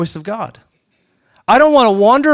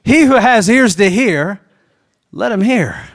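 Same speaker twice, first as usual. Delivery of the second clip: mock solemn pronouncement; slower than usual. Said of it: "just get done with a statement and go".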